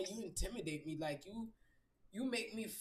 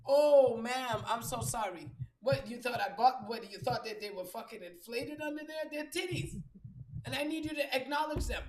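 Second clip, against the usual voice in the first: mock indignant rant; 3 semitones higher, 5 dB louder than usual. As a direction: scold the coworker, half playing. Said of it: "I used to have to turn around".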